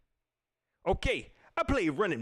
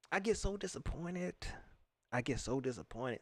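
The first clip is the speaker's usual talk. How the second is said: disappointed; 3 semitones lower, 8 dB quieter than usual. Real, not acted. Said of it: "I'm very disappointed".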